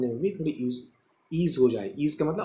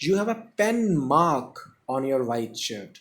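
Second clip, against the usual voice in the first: slow model sentence; much slower than usual. Shown as a demonstration. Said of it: "जैसे ही आपने ये वाला sentence पढ़ा ना".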